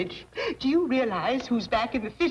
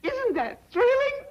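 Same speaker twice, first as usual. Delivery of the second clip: much higher, breathless delight; starstruck gushing; 11 semitones higher than usual. Acted. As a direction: gasp it out like a fan. Matron spots the princess.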